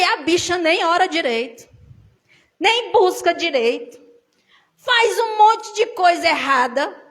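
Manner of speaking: frustrated complaint. Retold or imitated. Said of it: "eu cheguei frustrada".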